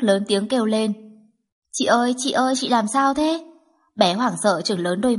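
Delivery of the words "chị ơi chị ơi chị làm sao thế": put-on high child voice calling out anxiously; worried little girl. Little girl calling her sleeping sister, anxious and high. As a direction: call to her like a frightened toddler.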